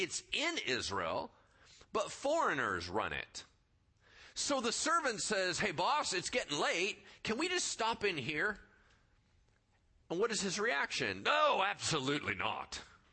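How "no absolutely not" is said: sudden put-on English accent. Retelling a story, the speaker voices the boss refusing the servant, put-on english accent. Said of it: "I don't know why he suddenly had an English accent".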